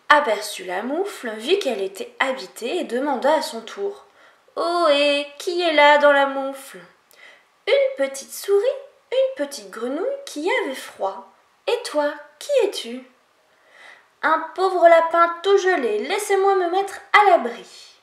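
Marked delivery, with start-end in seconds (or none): 4.6-13.1 higher, curious small voices calling out; a lightly voiced chorus of small animals; small animals asking who is outside; little animals in the mitten. Animals inside question newcomer. 14.2-18.0 higher and louder, begging to come in; a little rabbit pleading from the cold; frozen rabbit begging the animals to let him in. Acted. Frozen rabbit asks shelter.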